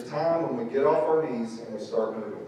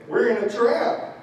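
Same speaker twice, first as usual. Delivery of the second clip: much higher and louder, exasperated cry; Moses retorting; 12 semitones higher, 9 dB louder than usual. Retold or imitated. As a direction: yell back in mock desperation.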